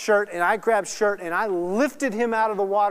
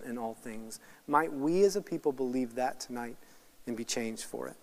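earnest, measured closing prayer; solemn pastoral prayer in a slightly lowered voice; 4 semitones lower than usual. Real, not acted. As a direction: pray aloud for the congregation, sincerely.

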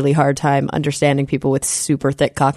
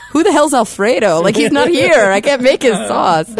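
mock Italian local; 7 semitones higher, 3 dB louder than usual. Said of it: "everybody will be like".

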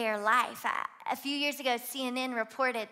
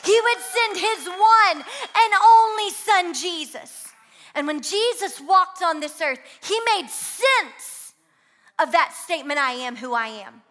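rising, higher and louder toward a shouted climax; full-force preaching; 7 semitones higher, 11 dB louder than usual. Real, not acted. Preacher crying out to the congregation, building to a shout. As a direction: build the sermon to a roaring peak.

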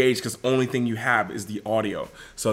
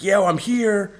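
phone audio; 9 semitones higher, slower than usual. Shown as a demonstration. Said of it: "I can give you".

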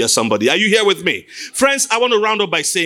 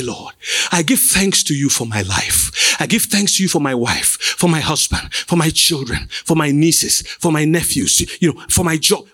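thanksgiving prayer; 8 semitones lower than usual. Shown as a demonstration. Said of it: "when we say give thanks".

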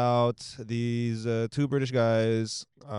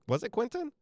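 retold sudden realization; 12 semitones higher than usual. Retold sudden guess at director's name.

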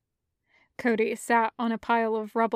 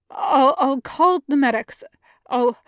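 flustered; 3 semitones higher, 6 dB louder than usual. Acted. Starving Jedi panicking near blood.

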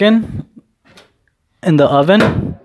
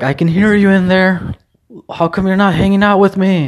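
higher put-on voice for the lonely dog; voicing the dog; 6 semitones higher than usual. The neighbor's dog complaining it hears him: higher voiced plea. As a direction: speak the dog's imagined plea in a higher voice. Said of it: "because she's like".

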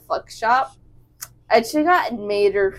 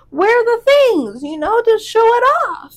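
put-on customer's accented voice; 11 semitones higher, 7 dB louder than usual. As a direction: put on a high foreign accent. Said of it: "She's like".

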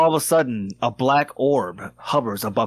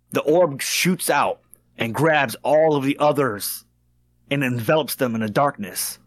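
game master narration. Acted. GM narrates the scene.

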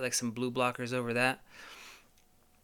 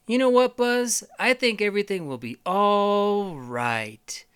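Woody; 8 semitones higher, 5 dB louder than usual. Acted. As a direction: reassure with a sneaky calm. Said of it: "And then Woody's like".

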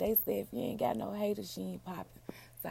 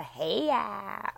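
imitating son hollering; 4 dB louder than usual. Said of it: "be sounding just like me".

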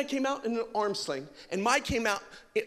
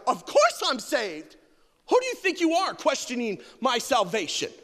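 mock indignant; 3 semitones higher, 4 dB louder than usual. Preacher imitating himself offended at being asked, indignant. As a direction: bristle at being questioned, hammed-up. Offended reply to "are you saved.

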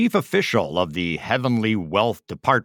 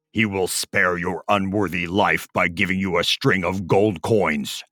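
stern announcement; 3 semitones lower than usual. Acted. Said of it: "announced to Ah Fu".

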